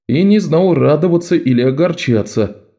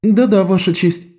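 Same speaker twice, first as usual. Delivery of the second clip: put-on higher girl's voice, eager to please; bow and answer meekly, pitched up; higher, submissive street girl; Bet, bowing; 9 semitones higher than usual. A narrator's reading. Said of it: "с поклоном ответила Бет".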